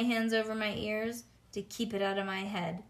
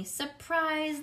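put-on children shouting surprise; hollered; 8 semitones higher than usual. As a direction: jump out and holler. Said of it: "they hollered".

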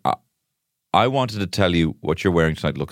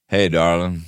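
lightly put-on cowboy accent; half-hearted cowboy accent; slower than usual. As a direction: try a cowboy accent on a chat-up. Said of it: "It's a Biff fucking cowboy".

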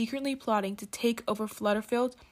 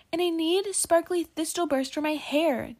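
demanding; 7 semitones higher than usual. A narrator's reading. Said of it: "demanded Rayla".

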